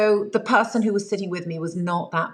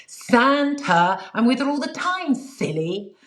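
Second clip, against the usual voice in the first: higher, teasing and gravelly, laughing it off; sister's gravelly voice; 5 semitones higher, slower than usual. Retold or imitated. Late sister answers from beyond, gravelly and teasing. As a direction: tease her sibling like it's obvious. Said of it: "in that really gravelly voice that she had".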